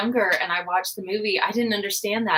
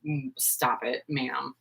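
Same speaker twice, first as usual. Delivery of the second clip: unimpressed horse; 5 semitones lower than usual. Retold or imitated. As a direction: drop into a dry, unimpressed horse voice, fading out. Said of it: "He was like".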